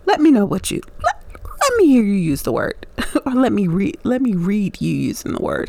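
stumbling into restarts; tongue-tied. Real, not acted. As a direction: trip over the phrase and keep correcting yourself. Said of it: "I'm getting all tongue-tied".

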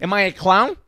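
high, loud Italian-American mobster challenge; mock Italian-American gangster outrage; Sopranos Italian-American accent. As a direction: demand it like an Italian-American wiseguy. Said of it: "Sopranos kind of voice".

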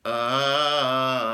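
sung ah with a pencil between the teeth. Shown as a demonstration. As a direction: sing the ah biting a pencil. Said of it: "put the pencil in my mouth here, in between my teeth, and sing again".

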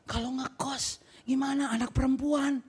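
mildly acted anxious mother; stressed mama. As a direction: voice a mother's worried protest, understated. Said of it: "Stres dia". (mama stres, agak cemas dibuat-buat)

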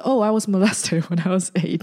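laughing through the line; half-laughing quote. Retold or imitated. Quoting guest with laugh.

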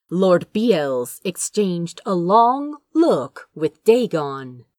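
ordinary delivery

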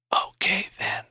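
breathy unvoiced whisper. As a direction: echo it back in a faint dying whisper. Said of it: "he whispered".

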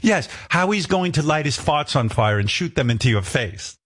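lightly imitated British producer; courteous request in a rough British accent; amateur British accent for a polite producer. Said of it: "She had a British accent".

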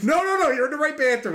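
mock reassurance. Reassuring a startled guy in bathroom.

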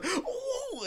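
squealed high ooh, very soft; a campy dramatic gasp. Retold or imitated. Coworker googling, campy high ooh. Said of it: "a dramatic little gay like I am".

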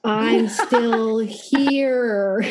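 drawn-out, very slow ghostly moan; haunt the partner from the mirror, stretching every word; spooky ghost. Pretend. Acting ghost writing on mirror.

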